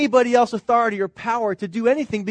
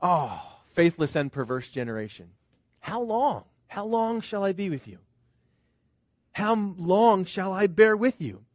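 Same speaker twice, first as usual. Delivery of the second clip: weary lament; 4 dB quieter than usual. Retold or imitated. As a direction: let it sink, sorrowful and worn out. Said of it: "Or is it".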